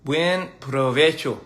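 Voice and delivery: "Buen provecho" said slowly, syllable by syllable; slow careful Spanish. Shown as a demonstration. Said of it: "All right".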